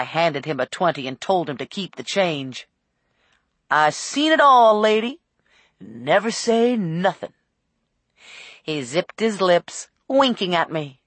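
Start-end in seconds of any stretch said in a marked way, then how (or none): 3.7-7.3 lightly voiced cabbie, slowing at the end; a hint of an old cabbie; worldly old cab driver. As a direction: confide like a seen-it-all driver. Cab driver reassures passenger.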